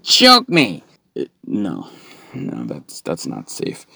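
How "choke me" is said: high, loud mock demand; imitated begging girlfriend. Girlfriend wants him to choke her, loud mock begging. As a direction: beg for it, hammed up and high. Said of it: "wanted me to choke her".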